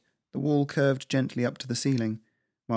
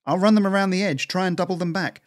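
higher, called over the shoulder; calling out; 9 semitones higher, 5 dB louder than usual. Acted. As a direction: shout back while running. Cora shouts while running off.

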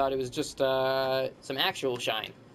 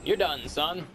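catchphrase taunt; slower than usual. Acted. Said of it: "maybe that's my catchphrase".

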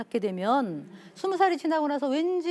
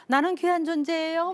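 proud, self-assured claim, a touch higher; confident declaration; 4 semitones higher than usual. Retold or imitated. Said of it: "이렇게 당당하게 돼요".

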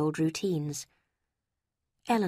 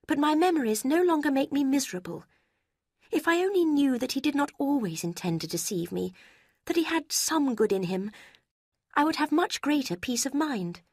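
put-on raised, earnest young woman voice; remorseful young woman; 8 semitones higher than usual. A narrator's reading. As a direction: confess with regret, gently pressing. Marianne voiced in story.

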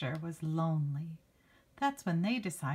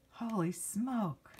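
put-on kid saying; 3 semitones higher, slower than usual. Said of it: "That's what the kids are saying".

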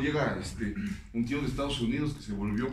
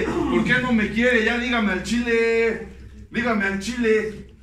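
higher, louder, slow insistent plea; loud pleading demand; 10 semitones higher, 10 dB louder, slower than usual. Retold or imitated. Son-in-law loudly demanding why his father-in-law rejects him. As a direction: press him hard for the truth. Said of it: "se me ocurrió decirle".

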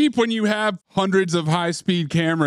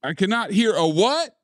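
hype man shout; 8 semitones higher than usual. Acted. Freddy hyping a silent crowd.

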